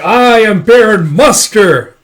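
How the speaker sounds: loud, high, slow theatrical proclamation; villain's grand announcement. Retold or imitated. Villain grandly reveals himself.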